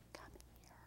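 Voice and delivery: barely audible whispered beckon; retold beckoning. Jesus privately calling the speaker over, whispered. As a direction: mouth it almost without voice, very softly. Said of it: "and he's like".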